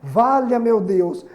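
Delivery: slow, exclaimed "Valha meu Deus"; exclamatory demo. Shown as a demonstration. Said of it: "É usado com interjeições". (exclamação lenta e expressiva)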